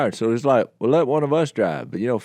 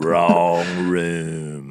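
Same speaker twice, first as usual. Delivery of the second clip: very deep, very low, guttural, near-demonic voice; 7 semitones lower than usual. Retelling a story about dad in a hotel room: imitating dad's deep guttural demonic voice. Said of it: "in a deep, guttural, almost demonic voice".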